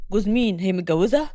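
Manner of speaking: mildly astonished man asking; puzzled. A narrator's reading. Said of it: "بيكلمها محمود باستغراب". (باستغراب، بصوت أوطى)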